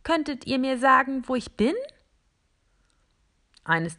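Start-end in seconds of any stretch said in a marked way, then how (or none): 0.0-1.7 very high voice. Acted. Small robot greeting the plastic figures in a very high voice. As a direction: squeak out a shy hello. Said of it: "die unglaublich hoch ist".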